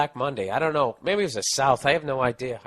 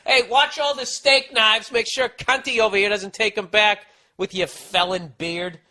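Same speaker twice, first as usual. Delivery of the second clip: mock bossy manager; 8 semitones higher, 5 dB louder than usual. Manager warning staff about the felon, hammed-up orders. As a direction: ham up a manager barking a warning. Imitating the restaurant boss.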